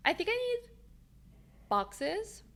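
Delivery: words stretched by a yawn. Real, not acted. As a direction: talk through a big yawn. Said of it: "I was gonna yawn".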